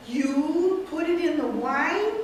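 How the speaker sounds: slow, stunned disbelief; aghast. Acted. Mortimer learns of the poison, slow and stunned. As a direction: repeat it in horror. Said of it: "playing the nephew, Mortimer".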